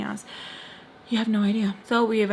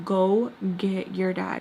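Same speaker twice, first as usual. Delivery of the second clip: slow retold command at usual pitch; slow, firm order; slower than usual. Telling her to fetch her dad, slow firm order. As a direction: spell it out slowly, without shouting. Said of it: "So I yell at her".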